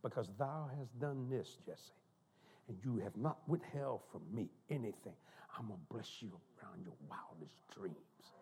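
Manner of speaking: King James voice. Retold or imitated. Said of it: "it was in King James language".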